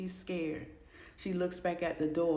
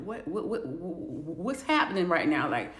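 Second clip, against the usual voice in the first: freaking out; 5 dB louder than usual. Acted. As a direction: stutter in rising panic, slowing on "can't leave". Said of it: "she's freaking out".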